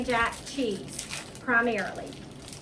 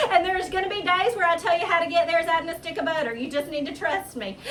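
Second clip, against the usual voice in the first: laughing; 2 semitones higher, faster than usual. Real, not acted. Laughing through butter advice.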